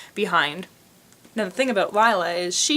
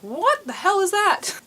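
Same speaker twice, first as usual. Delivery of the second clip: much higher, slow incredulous question; baffled disbelief; 11 semitones higher, slower than usual. Retold or imitated. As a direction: act stunned by a strange word. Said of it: "I was like".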